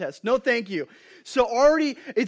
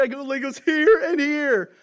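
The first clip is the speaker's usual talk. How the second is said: put-on higher, louder whiny kid voice; little kid's voice; 6 semitones higher, 7 dB louder than usual. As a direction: play the kid with Legos up his nose. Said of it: "He's like".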